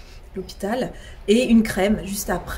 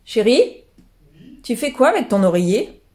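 calling out; 3 semitones higher, 8 dB louder than usual. Real, not acted. Calling to partner upstairs.

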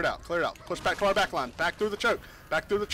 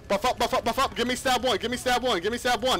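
rally the squad at full voice; shouting orders over battle; 5 semitones higher than usual. Real, not acted. Commander calling final push.

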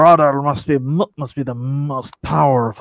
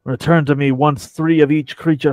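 pirate voice. Acted. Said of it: "I really should have practiced the pirate voice".

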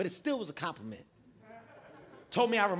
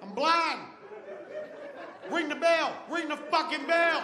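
high, hammed-up panicked yell; panicked shouting; 8 semitones higher than usual. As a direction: yell desperately for help, pitched way up. Begging to end the round, blinded.

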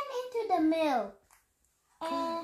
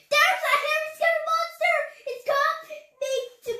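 high, loud cries for help; alarmed yelling; 10 semitones higher, 7 dB louder than usual. Acted. Keeper tricking Dad about a monster, alarmed yelling. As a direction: raise a loud false alarm.

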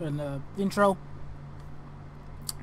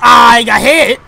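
drawn-out, higher yell of dismay; very loud, stretched wail; alarmed shout; 4 semitones higher, 20 dB louder, much slower than usual. Real, not acted. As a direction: cry out as you take a hit. Hit in the game.

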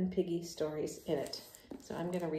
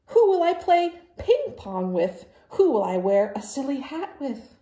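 high, loud, whining lament; dramatic wail; 9 semitones higher, 7 dB louder than usual. Acted. Gerald laments to Piggy, high sing-song wail. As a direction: wail it like a heartbroken friend. Gerald wailing, sung at end.

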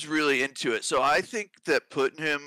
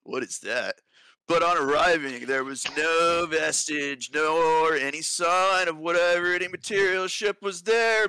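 lightly voiced laid-back bro; gym bro. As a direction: read it like a chill dude. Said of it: "Then do it in a bro voice".

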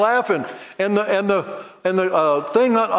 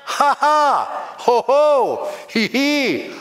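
rhythmic ha ha ho ho, breaking into real laughs; laughing at the devil; 3 semitones higher than usual. Shown as a demonstration. Preacher showing how to laugh at sickness. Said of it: "we've got to learn to laugh at the devil".

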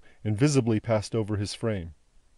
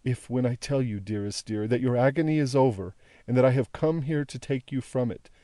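gentle appeal, hushed on the closing refrain; lightly voiced loving daughter; pleading daughter, tender. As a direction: soothe and implore at once. Daughter continues her appeal.

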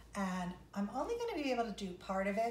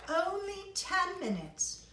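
loud, impatient boss calling for players; grumpy conductor; 3 semitones higher, 7 dB louder than usual. Acted. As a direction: bark out orders like a fed-up conductor. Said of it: "he's kind of grumpy today".

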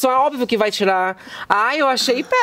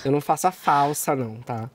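low, quiet, brisk brush-off; deadpan snub; 9 semitones lower, 7 dB quieter, faster than usual. Pretend. Host telling her guest she doesn't like her, deadpan. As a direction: say it coolly under your breath.

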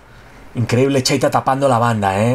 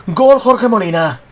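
breakneck goal commentary; 6 semitones higher, 3 dB louder, slower than usual. Real, not acted. Goal repeated slower.

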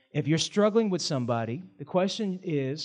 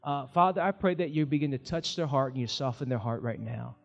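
prayer. Acted. Pastor praying over the congregation at the close, gentle prayer. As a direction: pray gently over the room. Closing prayer and altar call.

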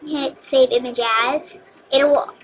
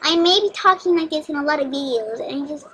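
a lightly goofy, dopey cartoon pony voice; derpy voice; 4 semitones higher than usual. Vlogger greets her pony fans in a goofy derpy voice. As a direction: play it silly and a bit dim, easy on the throat. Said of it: "doing my derpy voice actually relaxes my vocal cords".

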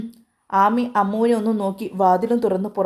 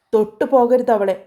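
shouting; 2 semitones higher, 5 dB louder than usual. Acted. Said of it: "Vichu അലറി".

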